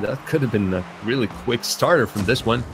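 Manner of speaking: live play-by-play. Real, not acted. Caster calling a match for stream viewers, lively play-by-play. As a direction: call the action as it happens.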